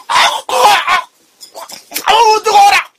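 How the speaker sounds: sudden high yelp of pain; yelling. Real, not acted. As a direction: cry out at the scalding bite. Burned by hot egg.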